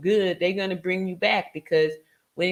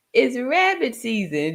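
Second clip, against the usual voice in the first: mock Bugs Bunny; 5 semitones higher, 4 dB louder than usual. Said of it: "Bugs Bunny turns it around and says".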